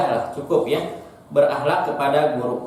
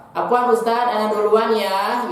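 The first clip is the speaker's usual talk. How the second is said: higher, brighter polite student asking to pass; polite student greeting; 4 semitones higher than usual. Shown as a demonstration. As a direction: greet the teacher politely while passing. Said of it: "Maka kita harus nyapa". (murid menyapa ustadz dengan sopan sambil mendahului)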